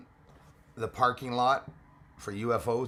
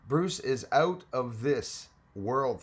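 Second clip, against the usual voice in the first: sportscaster voice; much slower than usual. Shown as a demonstration. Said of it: "I always take a sportscaster's voice".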